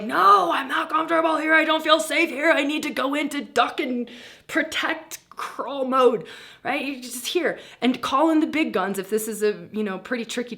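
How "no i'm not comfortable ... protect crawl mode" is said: much higher and louder protest; mock indignation. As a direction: push back high and loud like a scared, cranky animal. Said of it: "pissed off".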